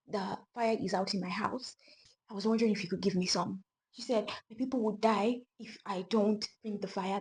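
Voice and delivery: put-on frightened girl begging the witch for fire; trembling girl. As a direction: beg meekly, almost afraid. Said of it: "trembling, she was like".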